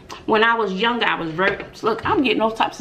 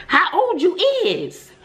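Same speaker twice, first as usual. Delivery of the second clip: imitating a boy; 10 semitones higher, slower than usual. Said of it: "the boy was like".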